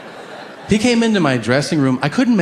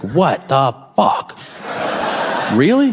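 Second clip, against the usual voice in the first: excited; slower than usual. Retold or imitated. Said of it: "excited reaction".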